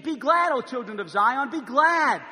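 loud, slow joyful shout; shouted scripture. Acted. Preacher calling Zion to rejoice, shouting. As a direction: cry out the call to rejoice.

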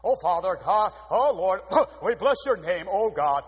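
mock pompous preacher prayer, loud and strained; hammed-up stage-preacher praying, as if choking on a steeple; steeple-in-throat preacher. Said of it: "You sound like you got a steeple stuck in your throat".

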